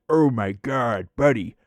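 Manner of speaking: slow, lightly voiced amazed old guy; mock awe at the old sprinkler; imitating Mike. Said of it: "he'd be like".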